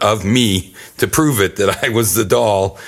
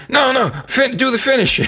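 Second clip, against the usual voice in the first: high-pitched, strained imitation of an injured wrestler; mock urgent whisper; 11 semitones higher than usual. Injured partner insists on ending the match, mock urgent whisper. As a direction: urge it through mock agony. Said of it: "he's whispering".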